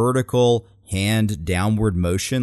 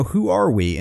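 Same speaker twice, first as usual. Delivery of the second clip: quoted rally line; 9 semitones higher than usual. Retold or imitated. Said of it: "And she said".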